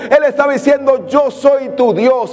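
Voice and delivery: cada "Yo soy" más alto y lento, casi cantado; predicación a toda fuerza. Acted. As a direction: proclama con fuerza creciente, lento. (el predicador proclama la voz de Dios, a pleno pulmón)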